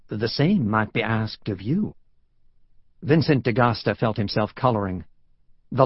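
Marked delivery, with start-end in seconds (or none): 0.1-1.9 put-on genteel Southern accent, gently teasing; courtly Southern voice; cultured Southern drawl. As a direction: turn the question back in a Southern drawl. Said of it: "the cultured Southern drawl he remembered".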